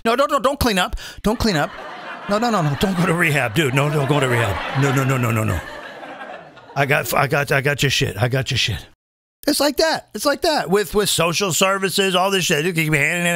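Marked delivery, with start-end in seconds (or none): 0.0-8.8 a hint of a smooth street dealer; drug dealer voice. Mocking welfare as a dealer pushing product, lightly voiced. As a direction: coax like a pusher keeping a customer hooked. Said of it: "it's almost like a drug dealer".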